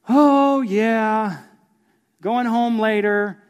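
hammed-up child rambling to himself; mock kid voice. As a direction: play the oblivious little boy, slow on the last bit. Kid wandering, voiced in story.

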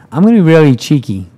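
playful fundraiser pushing her luck; cheeky pitch. Retold or imitated. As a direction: coax him with a grin. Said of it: "And she went".

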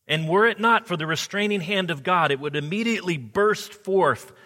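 fire-and-brimstone preaching. Retold or imitated. Pastor quoting Edwards to congregation, mock fire-and-brimstone thunder. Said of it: "Hear Edwards again".

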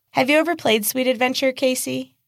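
put-on high, sweet sing-song child voice; sugary little girl. Little girl asking Casey about the game, sugary high. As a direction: sound innocent while hiding menace.

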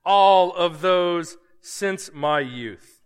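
put-on self-satisfied young man bragging to Jesus; smug self-satisfied. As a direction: boast like a proud young man sure he has earned it. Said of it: "pretty happy with himself".

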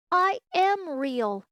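high, loud, slow insistence; upset protest. Acted. Little rabbit insists to wild rabbits, upset and protesting. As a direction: plead it, close to crying. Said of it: "he nearly began to cry".

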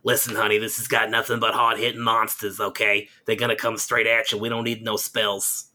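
lightly voiced old New York lady, a hint of smoker; raspy smoker lady from Queens, played lightly. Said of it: "Heavily Smoker, Old New York Lady".

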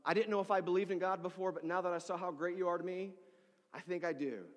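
hammed-up heartfelt thanks; overwhelmed gratitude. Grateful client exaggerating to the pastor, overwhelmed with gratitude. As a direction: exaggerate a grateful person's awe. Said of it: "they were just overwhelmed with gratitude".

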